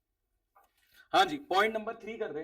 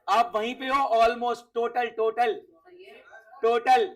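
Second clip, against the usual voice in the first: urging hint; 6 dB louder, slower than usual. Real, not acted. Teacher hints at the answer.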